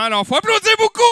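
crié très haut, fort et rapide; appel enthousiaste. Acted. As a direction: pousse la salle à applaudir fort. Animateur réclame des applaudissements. (animateur qui réclame les applaudissements en criant)

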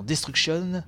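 "destruction" in a showy English accent; French-tinged English accent. Real, not acted. Streamer reading out trailer slogans, showy English accent. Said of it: "Oh, mon superbe accent".

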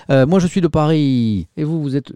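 Parisian accent. Shown as a demonstration. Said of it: "j'ai pris l'accent parisien".

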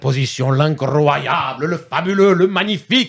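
slow, drawn-out mock Italian game show host; grand winner announcement. Host crowns the quiz winner in hammed-up Italian style. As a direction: stretch every word like an Italian host crowning the champion. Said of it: "les gagnants en V F, mais avec un accent italien".

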